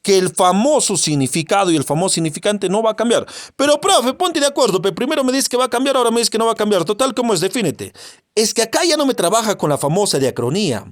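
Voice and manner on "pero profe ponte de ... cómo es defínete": higher-pitched mock student complaint; lightly acted exasperated pupil challenging the teacher; student's protest. Voices a confused student protesting.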